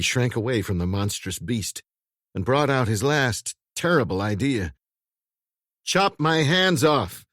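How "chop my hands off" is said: calm order. A narrator's reading. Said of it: "he ordered, quite calmly".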